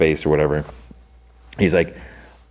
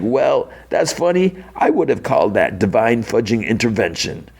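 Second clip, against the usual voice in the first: smug sarcasm; 5 semitones higher than usual. Retold or imitated. Mister Charles mocks Kingpin at dinner.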